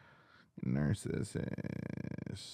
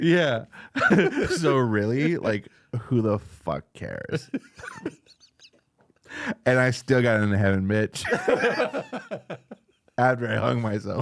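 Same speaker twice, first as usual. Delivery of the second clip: laughing Judas mockery; 2 semitones higher, 3 dB louder than usual. Keeps mocking Judas, laughing.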